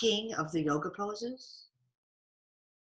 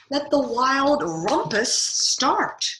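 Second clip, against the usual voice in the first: louder, higher and slow, drawn out; hammed-up cry; 6 semitones higher, 6 dB louder, slower than usual. A narrator's reading. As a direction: cry it out like Max starting the party. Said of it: "cried Max".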